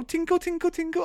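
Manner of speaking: high soft tinkles; bell tinkle. Acted. Cyclist mimicking the bike bell, high and soft. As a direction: ring a little bell with your voice.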